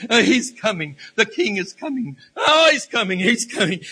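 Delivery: laughing, elated preacher's exclamation; overjoyed, pitch leaping mid-way; joyful excitement. Real, not acted. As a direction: let delight break into a laugh. Rejoices that the king is coming.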